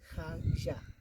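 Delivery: whispered echo of the new word; whispered repeat. Shown as a demonstration. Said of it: "Se dice jagya".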